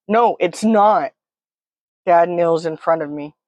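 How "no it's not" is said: higher, slow, insistent denial; drawn-out upset contradiction; frantic protest. Acted. Panicking child contradicts dad, distressed protest.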